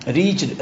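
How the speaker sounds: ریچڈ in one syllable; REACHED with silent E. Shown as a demonstration. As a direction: say ریچڈ as "reechd". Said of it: "ریچڈ پڑھتے ہیں".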